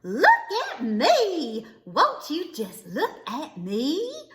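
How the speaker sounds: gleeful calls with a laugh in them; whooping and hollering. Acted. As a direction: show off your new boots, delighted. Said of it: "she whooped and hollered".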